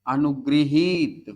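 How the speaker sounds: each syllable drawn out for writing; slow, careful dictation. Shown as a demonstration. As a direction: say it slowly so they can write it down. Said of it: "शब्द लिखो".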